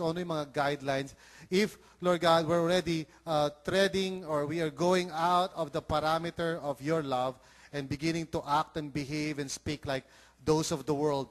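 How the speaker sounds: earnest, measured public prayer. Real, not acted. Pastor asking the Lord for help on behalf of the church, prayerful.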